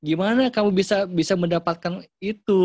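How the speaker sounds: loud, high, wondering question; amazed questioning. Shown as a demonstration. Parent asks a child how they achieved it, amazed. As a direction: ask with big impressed curiosity. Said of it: "gimana cara komunikasinya?".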